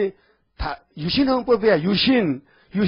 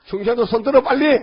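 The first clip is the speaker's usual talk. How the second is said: louder, urgent call for hands; calling out to crowd; 4 semitones higher, 5 dB louder than usual. Real, not acted. Preacher urges Chungcheong folk to raise hands, calling out loudly. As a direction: hurry the congregation up, louder.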